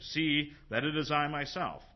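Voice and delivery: "See" set apart, then "I myself" stressed; emphatic reading, falling at the end of "myself"; intensified emphasis. Shown as a demonstration. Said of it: "intensifying this".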